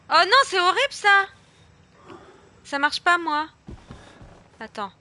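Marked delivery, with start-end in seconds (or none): 0.1-1.3 loud, high, alarmed; frightened cry. Real, not acted. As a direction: yelp it out in fright. Horror game scare. (cri effrayé)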